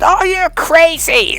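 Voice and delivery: high, drawn-out dismissal; hammed-up scoff, stretched out; mocking exasperation. Men dismissing women, acted.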